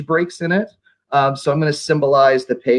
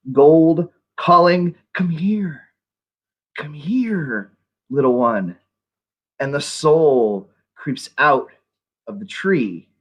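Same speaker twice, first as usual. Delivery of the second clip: measured recital with long pauses between phrases; spooky poetry reading. Acted. Poet performs All Hallows for a livestream, spooky measured recital. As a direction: read it as a spooky poem, letting each phrase hang.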